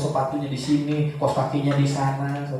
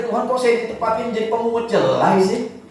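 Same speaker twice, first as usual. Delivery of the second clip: higher-pitched mock complaint; Ruth complaining; 5 semitones higher than usual. Preacher acting out Ruth's complaint to God about gleaning barley, complaining. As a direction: imitate someone protesting to God. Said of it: "mungkin Ruth bisa aja komplain".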